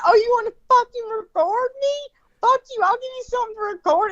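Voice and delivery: high, fast imitated taunt; mock angry threat. The angry driver taunting the woman who is filming her, mock furious.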